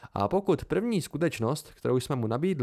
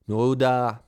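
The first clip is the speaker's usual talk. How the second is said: curt cut-off; 5 dB louder than usual. A narrator's reading. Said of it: "uťal ho Elodin".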